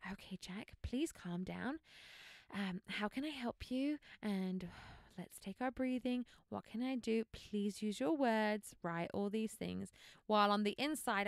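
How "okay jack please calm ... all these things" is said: lightly voiced gentle, patient mom; mother calming her screaming son, gentle and patient; kind voice. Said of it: "I'm trying to use my kind voice".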